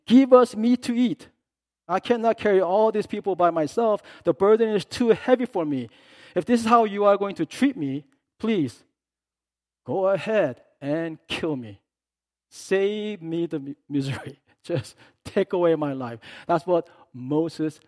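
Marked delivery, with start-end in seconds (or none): 0.1-1.3 high, loud whining demand; whining crowd. Retold or imitated. Moses mimicking the wailing people, high and whiny. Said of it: "They keep wailing to me". 1.9-16.2 loud, exasperated complaint to God; Moses complaining. Retold or imitated. Moses telling God the people are too much, loud and exasperated. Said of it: "this is what he says".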